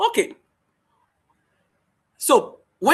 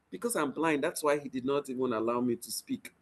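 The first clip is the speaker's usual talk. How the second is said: self-pitying inner voice; 6 semitones lower, 10 dB quieter than usual. Acted. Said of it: "when you walk with the mindset".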